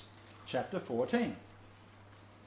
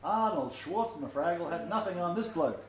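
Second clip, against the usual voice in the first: amused, laughing as he speaks; laughing while joking. Real, not acted. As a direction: chuckle through the joke. Joking about Samson's strength.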